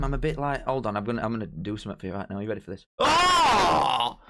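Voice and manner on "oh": high, loud startled cry; loud surprised shout. Real, not acted. Streamer shouting in shock at what he shows chat. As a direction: react with a big shock.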